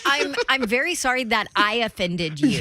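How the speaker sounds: mock a genuine heartfelt apology; sincere apology. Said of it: "That's not a".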